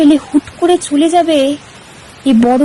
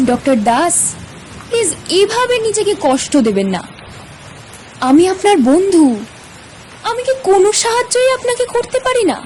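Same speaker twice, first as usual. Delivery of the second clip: theatrical pleading; 4 semitones higher than usual. Acted. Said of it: "হঠাৎ করে নাটকীয়তা খুব পছন্দ করে, তাই কথাটা এভাবেই বললাম".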